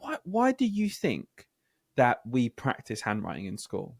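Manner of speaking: slow teacher question voice; slow, coaxing question to the class; teacher asking. Retold or imitated. Teacher asks the kids why they practise. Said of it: "actually saying to them".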